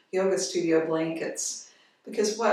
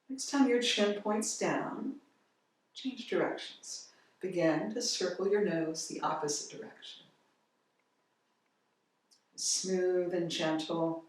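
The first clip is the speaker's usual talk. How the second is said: calm, unhurried guiding voice with long pauses; guided yoga instruction. Real, not acted. Yoga teacher leading a gentle head-circle warm-up, calm guiding voice. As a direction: ease them gently through each movement, softening as it goes.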